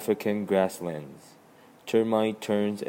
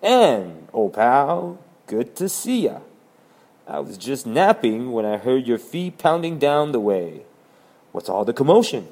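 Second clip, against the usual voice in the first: yawning; 3 semitones higher, 8 dB louder than usual. Acted. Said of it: "stretching and yawning".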